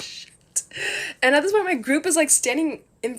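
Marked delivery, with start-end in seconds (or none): 0.0-0.3 very soft, under the breath; whispered curse. Retold or imitated. Cursing to herself as security pulls her aside, whispered. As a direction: barely say it, dismayed.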